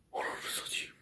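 a hushed curse under the breath; whispered curse; startled whisper. Real, not acted. Startled while hiding.

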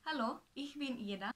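a quick German self-introduction. Shown as a demonstration. Showing viewers her German, in German. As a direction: say it in conversational German. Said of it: "conversational German".

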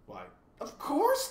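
high, slow, cheerful assent; loud and obliging, full of cheer. A narrator's reading. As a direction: agree eagerly, stretching the words out. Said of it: "said the humbug cheerfully".

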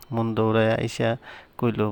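ordinary delivery

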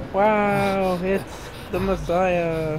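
awed onlooker. Pretend. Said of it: "they'll be like".

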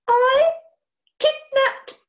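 high, loud, slow disbelief; stunned repeat. Acted. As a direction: echo his words as if struck.

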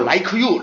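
"like you" with an added vowel, "lai-keu yoo"; "like you" unlinked, the k becoming its own syllable "keu"; separated pronunciation. Shown as a demonstration. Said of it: "이러시면 안 돼요".

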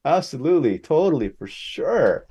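gasping, laughing, high-pitched acceptance; ecstatic yes. Retold or imitated. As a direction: re-enact jumping at a dream offer, each word punched out. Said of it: "And I was so ecstatic".

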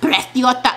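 Preciosa lisped as "preth-YO-tha", fully voiced; mock a whispered, heavily lisped Preciosa without really whispering; thick th in Preciosa; retold lisped whisper. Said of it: "oh, and then he whispered".

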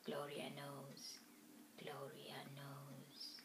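slow, hushed Gloria knows; whispering. A narrator's reading. Whispered echo of title.

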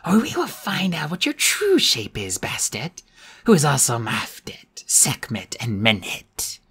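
whispered, eerie dubbed voice; out of sync voice. Acted. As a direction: speak like a voice dubbed over. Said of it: "her lips not moving in sync with her words".

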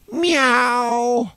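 high, drawn-out meow; cat meow. Pretend. Mocking the contestant's cat impression, high meow. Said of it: "her impression".

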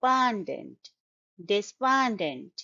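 "despondent" built up from stressed "pondent"; de-SPON-dent for "despondent", stress in the middle; second-syllable stress. Shown as a demonstration. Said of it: "the stress is on the second syllable".

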